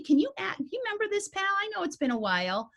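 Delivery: high, sweet coaxing voice to the dog; sweet talk to dog. Retold or imitated. Trainer coaxing her dog to remember, high and sweet. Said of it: "I'm being sweet".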